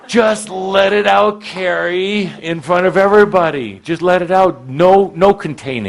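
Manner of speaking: rally her to let it all out; loud urging. Real, not acted. Coach urging Carrie in front of everyone, loud and high. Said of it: "You know we're gonna do this".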